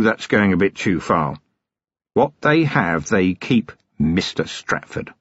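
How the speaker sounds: lightly voiced weary copper, cold threat; a hint of a hard-bitten watchman; Vimes, grim and controlled.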